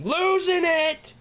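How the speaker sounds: high, slow, giggly cry of losing it; cracking up, let it burst out. Real, not acted. Streamer apologizing to a viewer, high slow giggly outburst. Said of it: "I'm losing it a little".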